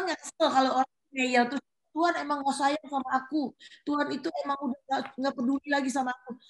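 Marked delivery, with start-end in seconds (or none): 2.0-6.4 mock sulky whine, a touch quick; whiny complaint. Insecure believer grumbling at God, mock whining. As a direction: sulk at God like a stubborn child. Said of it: "Itu malah nyebelin".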